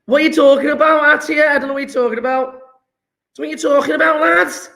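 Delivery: high-pitched, quick Scouse banter; Scouse accent. Pretend. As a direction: put on a lively Liverpool Scouse accent. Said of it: "I know, gone scouse".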